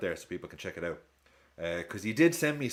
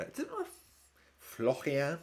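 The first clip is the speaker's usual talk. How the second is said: "Florian" in French, higher and rising; questioning French-accented "Florian"; 7 semitones higher than usual. Shown as a demonstration. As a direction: test out "Florian" with a guttural French r. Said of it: "in a French accent".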